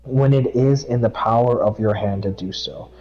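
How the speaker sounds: steady devotional read; scripture reading. Acted. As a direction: read it out like a verse at church. Reads Proverbs aloud.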